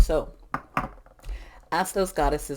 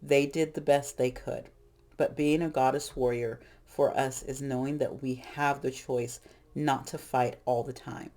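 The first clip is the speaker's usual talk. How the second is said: reading aloud. Shown as a demonstration. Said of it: "I wanna read this".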